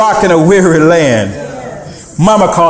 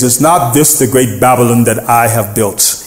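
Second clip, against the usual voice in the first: low-pitched impression of a boastful king; gloating king impression; 5 semitones lower than usual. Preacher voices the king surveying Babylon, gloating. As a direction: play the king lightly, pitched down. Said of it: "That's how he sounded".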